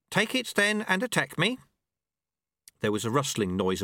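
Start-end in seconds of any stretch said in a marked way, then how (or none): 0.1-1.6 higher, gently mocking old master; a wry old sweeper teaching his apprentice; old monk Lu Tse. A narrator's reading. Old master speaks to the dojo monks, wry.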